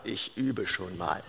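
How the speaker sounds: tief, langsam und leise; knorriger alter Adliger. Retold or imitated. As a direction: trockener alter Landadliger, bedächtig. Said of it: "sagte er in seiner typischen Art". (knorrig und trocken wie ein alter Adliger)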